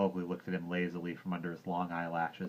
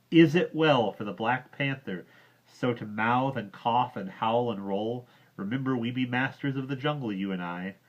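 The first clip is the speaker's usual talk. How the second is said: louder, higher, insisting; insistent repeat; 4 semitones higher, 8 dB louder than usual. Acted. Mowgli insists to Bagheera, louder and higher. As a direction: press the question hard, louder. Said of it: "I say".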